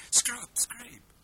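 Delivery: Scrap, scrape whispered, short vowel then long; chuchoté, deux voyelles; whispered contrast. Shown as a demonstration. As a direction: breathe the two words apart. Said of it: "c'est deux mots très différents".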